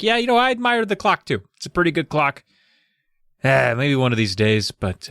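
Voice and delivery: dad voice. Retold or imitated. Dad voiced in retold story.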